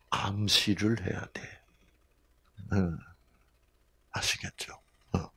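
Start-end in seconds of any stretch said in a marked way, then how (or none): 4.1-4.7 whispered aside to the audience. Real, not acted. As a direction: lean in and whisper it. (청중에게 속삭이는 말)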